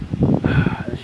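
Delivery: imitated teacher's heavy sigh; loud, put-upon mock sigh; exasperated sigh. Teacher fed up with pupil, imitated exasperated sigh.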